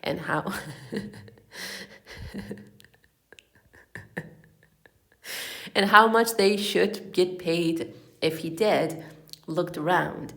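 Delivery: low-pitched read-aloud storytelling; story narration. A narrator's reading. Reading a comic novel to listeners, story narration.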